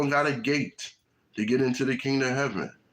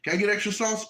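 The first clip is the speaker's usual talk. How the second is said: high-pitched acted request; demanding customer; 8 semitones higher, faster than usual. Customer asking employee for more, high insistent voice.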